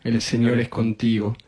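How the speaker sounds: even, repetitive Hail Mary cadence; rosary prayer. Real, not acted. Leading a decade of the rosary, recited prayer. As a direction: recite it steadily on a nearly level tone.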